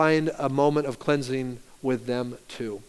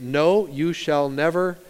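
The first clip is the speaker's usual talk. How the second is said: slow refusal; 2 semitones lower, slower than usual. Retold or imitated. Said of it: "look at how Peter rejects Jesus".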